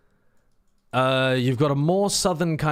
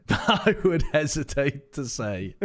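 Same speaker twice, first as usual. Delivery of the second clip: laughing; 2 semitones higher, slower than usual. Real, not acted. Joking dodge about chat.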